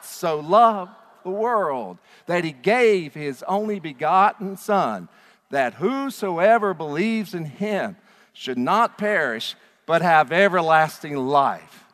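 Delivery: slow, loud and full of conviction; read like you mean it. Shown as a demonstration. Pastor leading the congregation in reading, passionate. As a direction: proclaim every word as if you mean it. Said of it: "Read it like you mean it".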